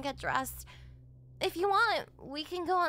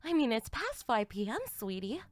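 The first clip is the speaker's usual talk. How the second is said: a lightly lowered, teasing mother's voice; teasing mom; 5 semitones lower than usual. Acted. Mother teasing her daughter in front of the boyfriend, lightly lowered voice. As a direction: play the amused mother scolding her daughter.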